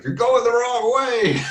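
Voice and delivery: high, slow quoted warning; imitating Doug. Doug calling after the speaker, high slow teasing impression. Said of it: "he's like".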